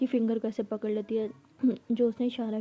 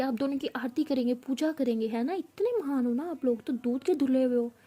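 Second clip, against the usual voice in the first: sarcastic taunt; 2 semitones higher than usual. Acted. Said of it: "अमारा का गुस्सा इतना ज़्यादा होता है".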